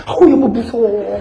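drawn-out mock fright, slightly high; hammed-up timid wife, slow; feigned fear. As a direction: play a wife pretending to be scared. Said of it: "좀 겁을 먹어주세요".

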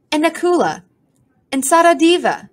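high snooty bird voice on the names; the pigeon sniffs out Nakula and Sahadeva; high pompous pigeon voice; haughty pigeon naming brothers. A narrator's reading.

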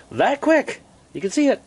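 high, amazed exclamation; stunned by how fast it came. Real, not acted. Amazed at sudden snow.

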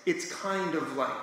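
slow, searching reading of the phrase; groping for words. Shown as a demonstration. Showing how John's text reads, slow and searching. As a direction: drag it out like someone hunting for a word. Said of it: "it reads like this".

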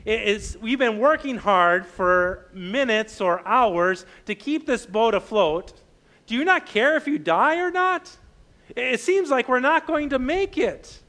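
lightly acted frustrated disciples, pitch climbing; exasperated complaint. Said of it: "waking Jesus up to say".

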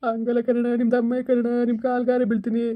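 acted tearful begging; tearful pleading. Man begging his elder to bring his wife back, tearful pleading. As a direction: plead as if crying, mildly. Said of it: "ಅಳ್ಬೇಡ".

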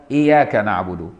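إياك with the ي said single, not doubled; light ya. Shown as a demonstration. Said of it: "بتخفيف الياء".

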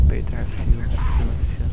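loud and excited. Real, not acted. Helicopter going down.

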